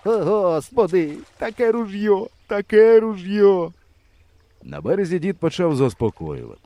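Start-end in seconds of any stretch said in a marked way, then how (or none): 0.0-1.1 moaning. A narrator's reading. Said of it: "стогне". 1.4-2.3 high, mournful moan in a different voice. A narrator's reading. The swimming hunter moans over his gun, high and mournful. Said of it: "стогне". 2.5-3.7 high, slow, louder grieving moan in a different voice. A narrator's reading. The swimming hunter moans over his gun, slow and louder. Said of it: "стогне".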